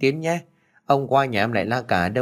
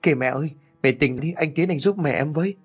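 higher, urgent plea for help; daughter-in-law crying out as mother faints, higher and urgent; panicked cry; 6 semitones higher, faster than usual. A narrator's reading. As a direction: call out in panic. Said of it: "liền hét lên".

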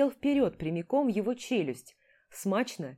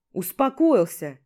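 barked order; 6 dB louder than usual. Acted. Commander ordering calm.

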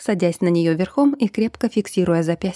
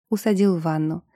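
ordinary delivery, nothing marked

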